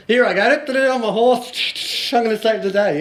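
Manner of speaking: sing-song mock triumph; dad playing the hero on his horse, hammed up; mock heroic gallop.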